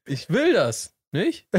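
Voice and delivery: slow, "will" stressed, pause, rising "nicht"; questioning tag NICHT. Shown as a demonstration. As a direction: state it, then ask "nicht?". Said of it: "So wie oder?".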